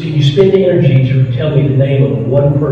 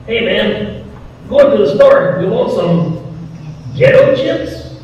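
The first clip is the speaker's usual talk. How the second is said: imitating a friend's Puerto Rican accent, pitched up; lightly put-on, higher Puerto Rican voice; 9 semitones higher, slower than usual. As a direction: do your buddy's Puerto Rican accent, higher than your own. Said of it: "And that Puerto Rican accent of his".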